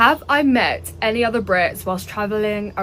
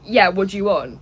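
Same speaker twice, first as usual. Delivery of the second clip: imitating a cool, unwelcoming brush-off; standoffish. British lad brushing off friendly tourists, standoffish. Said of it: "He was, like, very standoffish".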